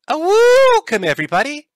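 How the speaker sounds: very high, loud falsetto greeting; girly streamer voice. Pretend. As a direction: squeal it out like a cute streamer. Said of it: "I can't get that pitch right".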